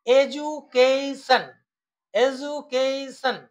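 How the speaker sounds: এডুকেশন slowly, piece by piece; broken into syllables. Shown as a demonstration. Teacher showing students syllables, এডুকেশন slowly divided. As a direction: sound out এডুকেশন one syllable at a time. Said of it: "একসাথে উচ্চারণ করা যায়".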